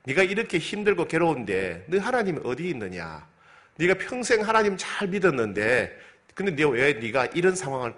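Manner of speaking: lightly voiced scornful neighbours, taunting; mocking taunt. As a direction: jeer at the sufferer, pitch climbing mid-run. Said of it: "비난하지요". (비웃으며 조롱하는 이웃 흉내)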